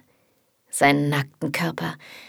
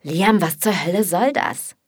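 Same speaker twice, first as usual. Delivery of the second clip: angry; 4 dB louder than usual. Acted. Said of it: "Markus' Stimme klingt wütend".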